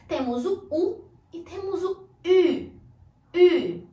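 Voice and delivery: "U" first like Portuguese u then rounded French u; two French U sounds. Shown as a demonstration. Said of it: "Em francês".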